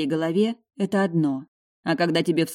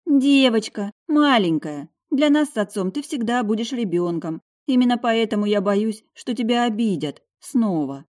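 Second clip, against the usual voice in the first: worried mother; 6 semitones higher, 4 dB louder than usual. A narrator's reading. Mother insisting to her grown daughter, worried higher voice.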